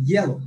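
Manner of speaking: ইয়েলো with stress on ইয়েল; first-syllable stress. Shown as a demonstration. Teacher recalling an example, first syllable of ইয়েলো stressed. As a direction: lean on the first part of ইয়েলো, let the end drop. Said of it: "stress দিব".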